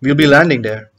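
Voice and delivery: deliberate, taunting stage monologue; cocky villain explaining the plan; gloating schemer. Acted. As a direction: lay out the trap with relish, pausing between moves. Performs the schemer's monologue from a play.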